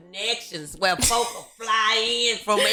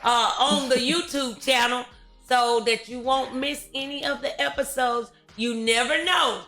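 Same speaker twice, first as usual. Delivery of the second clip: show sign-off; 5 semitones higher than usual. Real, not acted. Host thanks guests and audience for the show, upbeat sign-off. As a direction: send the audience off with lifted, projected energy.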